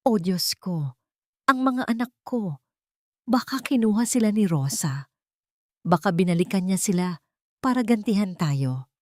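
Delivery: a hint of put-on tears, hurried toward the end; fake crying. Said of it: "nagsimulang umiyak ng malakas".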